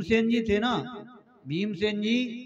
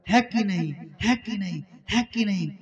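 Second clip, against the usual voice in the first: donkey bray. Retold or imitated. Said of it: "फिर कहता है".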